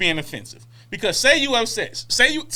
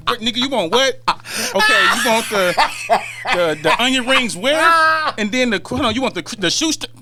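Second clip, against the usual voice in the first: louder, laughing waitress losing patience; fed-up waitress; 4 dB louder than usual. Retold or imitated. Waitress stumbling over a picky order, laughing and fed up. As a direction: play a waitress overwhelmed by the order. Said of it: "a waitress with a son".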